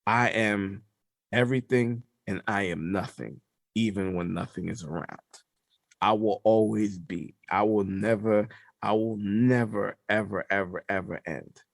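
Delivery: deliberate, measured godlike declaration; All Father's voice. Retold or imitated. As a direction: intone it with weighty pauses. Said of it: "And he's like".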